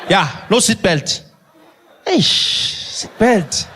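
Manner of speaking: mock cop laughing out the words. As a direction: chuckle through a cheerful no seat belt.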